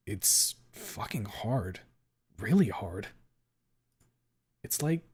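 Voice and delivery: struggling to breathe; out of breath. Acted. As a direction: gasp the words out slowly. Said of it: "trying my best to breathe".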